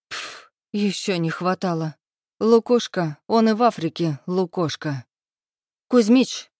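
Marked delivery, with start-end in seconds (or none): 5.9-6.5 loud sharp bark of a name. A narrator's reading. Heroine barks to warn the old man. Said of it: "рявкнула я".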